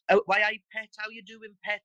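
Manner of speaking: Geordie greeting, lilting up; Geordie accent. Shown as a demonstration. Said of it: "The Geordies have pet".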